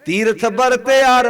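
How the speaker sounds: slow, drawn-out sacred verse; open-voiced verse recitation. Shown as a demonstration. Preacher leading the congregation in a shlok, slow open recitation. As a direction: stretch each word for the congregation to follow. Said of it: "ਸ਼ਲੋਕ ਖੋਲ ਕੇ ਬੋਲੋ".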